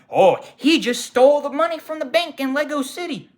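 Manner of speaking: high, loud cartoonish ad voice; Lego commercial guy. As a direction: proclaim it like an over-excited toy commercial. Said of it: "it's what he sounded like".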